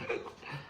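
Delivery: voiceless acted struggle for air; breathless gasp. Boxer unable to speak in his corner, breathless gasp. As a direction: gasp softly as if airless. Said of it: "I couldn't breathe".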